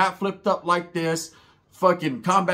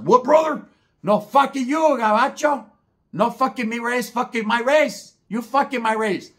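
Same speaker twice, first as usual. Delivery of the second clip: high, loud, furious broken-English yelling; angry yell; 8 semitones higher, 5 dB louder, slower than usual. Retold or imitated. Roach yelling back at the two paisas, loud and high. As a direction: shout him down, pick a fight.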